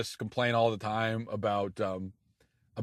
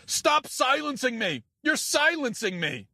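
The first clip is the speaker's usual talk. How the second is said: mock outrage; 10 semitones higher, slower than usual. Mocked feminist in argument.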